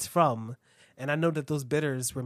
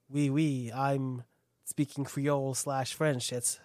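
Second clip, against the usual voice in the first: lightly voiced Louisiana Creole accent; a hint of a Louisiana Creole speaker; mild Louisiana Creole accent impression; slower than usual. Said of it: "That's my imitation of somebody from Louisiana".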